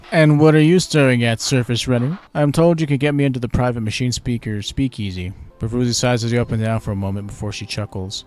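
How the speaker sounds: lightly voiced cheeky merchant; sly trader.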